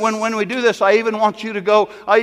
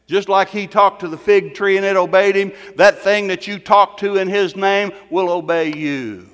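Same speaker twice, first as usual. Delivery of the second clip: preaching at full force. Acted. Pastor commanding cancer to die, preaching hard. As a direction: preach it hard over the crowd.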